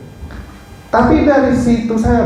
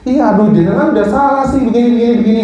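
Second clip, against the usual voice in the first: higher-pitched mock reproach; retold condescending scolding; 5 semitones higher, much faster than usual. Nurse telling the doctor he is wrong, condescending. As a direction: imitate someone brushing off the doctor's excuse. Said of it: "cara dia komunikasi ke saya itu sangat merendahkan".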